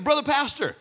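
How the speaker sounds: a hammed-up prophecy offered to the pastor; imitating the prophet. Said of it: "he turns to me and says".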